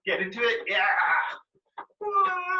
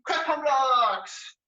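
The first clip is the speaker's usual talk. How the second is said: slow drill call; much slower than usual. Shown as a demonstration. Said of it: "calling out the drill".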